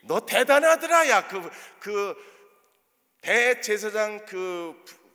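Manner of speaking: mock-impressed jab, some lines slowed right down; sarcastic teasing. Jesus pretending to tease Peter for denying him, sarcastic. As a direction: needle him with fake admiration. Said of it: "주님이 이러셨나요?".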